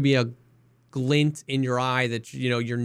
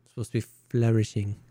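wood elf character voice; faster than usual. Pretend. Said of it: "your character voice for".

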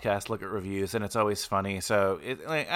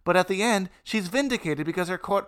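rage; 6 semitones higher, 4 dB louder than usual. Real, not acted. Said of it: "I felt the rage".

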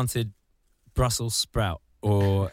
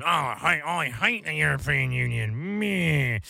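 lightly voiced sulky moan, slightly higher; a hint of a petulant politician; mock whiny Brexiteer; 4 semitones higher than usual. Mocking a Brexiteer who just hates the European Union.

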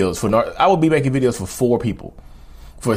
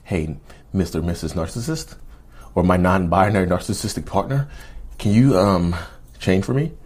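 meek pleading voice. Retold or imitated. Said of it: "go be nice to your narcissistic person".

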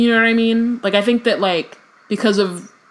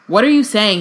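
very loudly; 4 dB louder than usual. Acted. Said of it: "he said very loudly".

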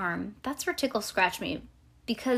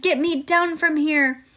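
higher, drawn-out cry for help; story shout; 8 semitones higher, 7 dB louder, slower than usual. A narrator's reading. Girl dangling on crutches wants to get down, shouting. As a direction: call out slowly to be rescued. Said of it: "I shouted".

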